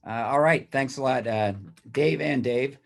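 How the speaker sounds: hoarse after choking on coffee; rough, raspy throat; raspy whisper. Real, not acted. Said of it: "excuse my voice".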